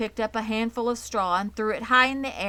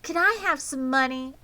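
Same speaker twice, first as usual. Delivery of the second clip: put-on pleading girl; 7 semitones higher, 4 dB louder than usual. A narrator's reading. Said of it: "asked Fern".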